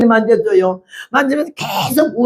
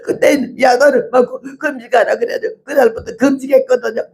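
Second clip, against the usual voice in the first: 1 tearful quote; 3 semitones higher than usual. Retold or imitated. Quoting the crying woman.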